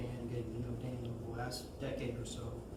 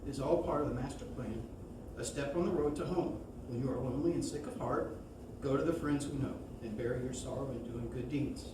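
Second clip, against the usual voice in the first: measured memorial poem reading, paused between phrases. Acted. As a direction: read the verse aloud gently and deliberately.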